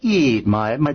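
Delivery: hint of a coaxing Italian nonna; doting grandmother. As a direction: coax like a grandmother feeding you. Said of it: "like your grandmother".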